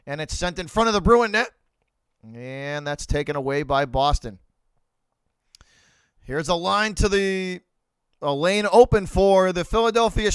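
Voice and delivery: hockey commentator calling the action; play-by-play call. Acted. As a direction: call the puck movement like a broadcast.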